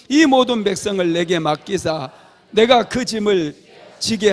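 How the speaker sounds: congregation reads scripture aloud together, loudly; loud group reading. Real, not acted. Pastor leads the church reading Numbers aloud, loud unison. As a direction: read it out together with full voice. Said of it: "같이 읽어봅시다".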